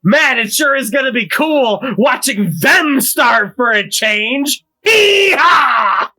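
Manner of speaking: folksy gung-ho character voice building to a yell; Ivankov. Acted. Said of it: "how he talks about stuff".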